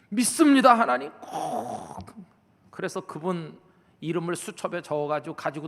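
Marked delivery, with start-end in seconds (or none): 0.1-2.0 pleading prayer. Retold or imitated. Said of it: "인상을 쓰고 막 말에 액센트를 줘가지고".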